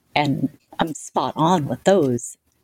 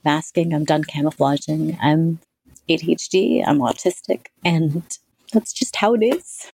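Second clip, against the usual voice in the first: defiant declaration. Retold or imitated. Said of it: "So I said".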